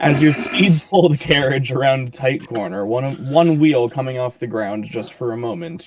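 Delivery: measured storyteller's scene setting; game master's narration. Acted. Game master describing an overturned cart to players, narrating. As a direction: set the scene, letting phrases fall away.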